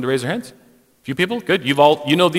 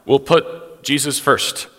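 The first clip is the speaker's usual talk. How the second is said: exasperated giving in. Retold or imitated. Pastor retells caving to a critic, exasperated then resigned. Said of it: "And I said".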